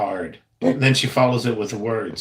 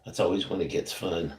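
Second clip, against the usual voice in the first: whispering; 4 semitones lower, 8 dB quieter than usual. Real, not acted. Whispered aside while painting.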